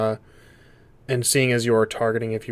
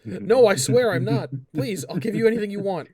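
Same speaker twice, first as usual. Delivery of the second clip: high desperate lizard plea; hissing lizard voice; 9 semitones higher, 5 dB louder than usual. Acted. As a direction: grovel in a reptile hiss. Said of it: "in a hissing voice".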